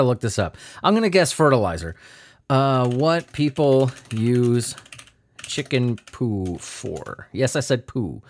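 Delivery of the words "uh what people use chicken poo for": dopey search voice. Pretend. Reading search query in dopey voice.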